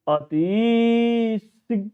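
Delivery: very slow, long drawn vowels on अति; drawn-out chanted अति; stretched vowels. Shown as a demonstration. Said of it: "उसी स्वर में उसको लेकर के पढ़ना चाहिए".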